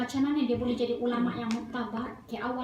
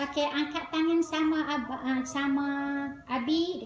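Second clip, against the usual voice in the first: lightly acted father, pitched up; father leading children; 2 semitones higher than usual. Father teaching his children at bedtime, lightly voiced coaxing.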